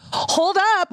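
high, sudden halt order; mock-stern parent. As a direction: act out a parent stopping a child cold. Parent acts out stopping wasteful daughter.

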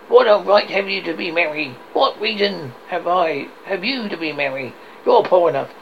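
lightly voiced grumpy challenge; grumbling Scrooge. Scrooge scolds his poor nephew, mildly grumpy challenge. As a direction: challenge him with a touch of scorn.

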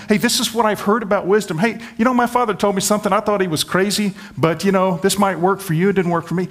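tossing off advice he doesn't believe in; casual shrug of a father. Retold or imitated. Preacher mocking a father who just passes wisdom on, lightly offhand. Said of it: "He's not saying to his son".

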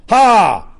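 high, loud shriek from a possessed man; reading scripture, the unclean demon shouts at Jesus; loud demon cry. Acted. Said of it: "he cried out with a loud voice".

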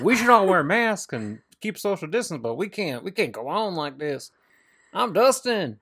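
breathy mock-earnest Dustin voice, high; hamming up a wrestler's earnest Facebook post. Friend mocking Dustin's post, mock-earnest high voice. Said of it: "He's like".

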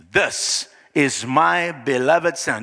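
slow, stately divine announcement; measured voice of God; voice from heaven. Acted. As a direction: announce the son with drawn-out solemnity. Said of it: "here comes this voice".

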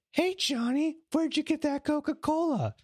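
high, put-on cartoon kid voice; squeaky mock kid asking a buddy; kid in the scene. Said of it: "It would be like".

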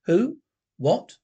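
sudden high, loud startled question; startled yelp of a question. Acted. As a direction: jump at the voice. Startled by unseen voice.

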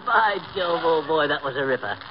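hammed-up British approval; badly faked British chap; awful British accent. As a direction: praise the joke as a fake Englishman. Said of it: "you have no idea how awful you sound".

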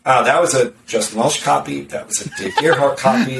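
chuckling through the quote; amused, half-laughing mockery. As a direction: laugh while calling out the copies. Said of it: "I read it and I'm like".

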